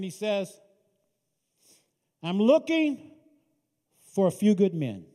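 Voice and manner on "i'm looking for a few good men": calling out. Acted. Jesus calls out from mountain.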